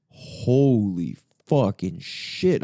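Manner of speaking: slow, stretched-out stunned swearing; stunned disbelief. Retold or imitated. Recalling his reaction to an armed raid, stunned and slow. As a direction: let each word drag out in disbelief.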